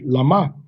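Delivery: "lama" with open a, Sephardic style; Sephardic reading. Retold or imitated. Teacher imitates Sephardic reading of lama. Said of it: "the Sephardic would say".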